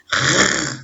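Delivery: R sounded alone as a long French throat sound; son isolé. Shown as a demonstration. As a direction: hold the bare sound of R, no letter name. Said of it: "je rajoute le dernier son". (R prononcé seul, tenu, comme un son)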